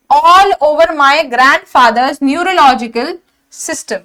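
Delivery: reads the quoted question slowly, word by word; slow sentence read-out. Shown as a demonstration. Teacher quoting question nine to students, slow and deliberate. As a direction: dictate the sentence like a question paper. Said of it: "कह रहा है".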